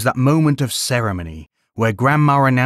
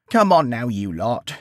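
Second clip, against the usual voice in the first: gently. Acted. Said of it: "she said gently".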